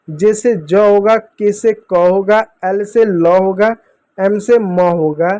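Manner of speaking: slow drill. Shown as a demonstration. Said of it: "तो sound को देखिएगा".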